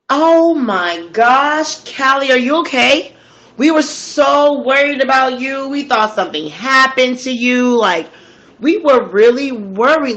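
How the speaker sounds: a killer faking relief at seeing her; fake concern. Yusuf rushing out to Callie, gushing with put-on concern. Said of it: "He runs out the door and goes".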